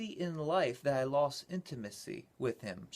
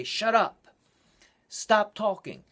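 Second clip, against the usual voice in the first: aggressive demons; 5 semitones higher, 6 dB louder, slower than usual. Retold or imitated. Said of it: "began to become a little more aggressive".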